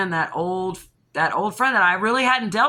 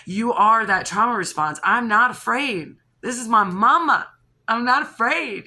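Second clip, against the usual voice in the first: defiant; 3 semitones higher, 4 dB louder than usual. Retold or imitated. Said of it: "I'm saying".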